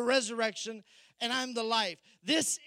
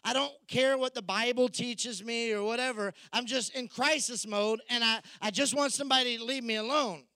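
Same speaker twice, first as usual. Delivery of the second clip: exasperated Martha. Retold or imitated. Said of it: "she's confused".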